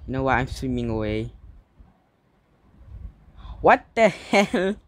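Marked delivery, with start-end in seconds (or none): 3.6-4.8 panicked. Real, not acted. Shark chasing player's swimmer.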